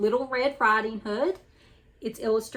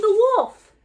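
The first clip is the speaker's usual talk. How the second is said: shrieking cry for help, much higher and louder; scream; 12 semitones higher, 12 dB louder than usual. Acted. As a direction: scream it in panic. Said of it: "she screamed".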